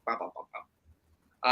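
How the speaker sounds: low, soft rattle of "bah"s; mock gunfire syllables, kept quiet; machine-gun imitation. Shown as a demonstration. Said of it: "like, machine gun quick".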